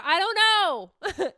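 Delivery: whiny drawn-out I don't know. Retold or imitated. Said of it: "I just told myself one day in the car".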